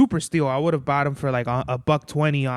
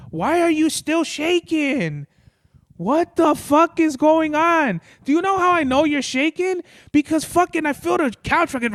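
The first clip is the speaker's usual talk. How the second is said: high pet-talk voice; 12 semitones higher, 4 dB louder than usual. Real, not acted. Talking to the shaking pet on the couch, high baby-talk voice. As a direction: coo at the trembling pet in a high, worried voice.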